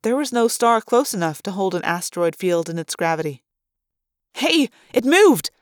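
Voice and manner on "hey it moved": high, drawn-out cry of surprise; astonished girl calling out; startled discovery. A narrator's reading. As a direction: exclaim it high, startled by what you see. Girl startled by moving asteroid.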